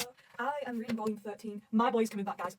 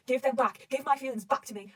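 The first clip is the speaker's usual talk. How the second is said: raised-voice retold demand; louder, half-shouted character demand; mild mock scream; 3 semitones higher, 6 dB louder, slower than usual. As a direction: act out his scream, held back. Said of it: "as he's screaming".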